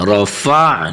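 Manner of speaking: رفع ending in a voiced throat squeeze; sounded ain. Shown as a demonstration. Teacher shows the ain sound, رفع with ain sounded. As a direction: let the ain ring at the end of رفع. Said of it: "عین کی آواز نکالیں گے".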